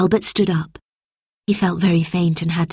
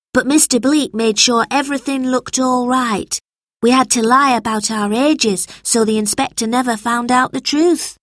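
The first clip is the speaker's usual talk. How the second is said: lightly voiced boy, higher; earnest child telling a secret, pitched up; George the boy; 6 semitones higher than usual. George's dialogue read aloud.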